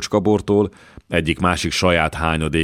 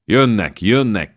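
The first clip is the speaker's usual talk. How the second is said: raised, higher cries of alarm; heated shouting; 5 semitones higher, 4 dB louder, slower than usual. A narrator's reading. Wounded knights burst in crying alarm, heated shout. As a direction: call it out hot and urgent, louder. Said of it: "kiáltozták felhevülten".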